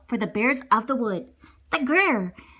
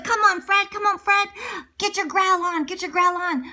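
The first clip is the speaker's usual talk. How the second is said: higher urging chant; eager supporter's cheer; cheering crowd; 5 semitones higher than usual. Acted. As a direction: egg on the contestant eagerly.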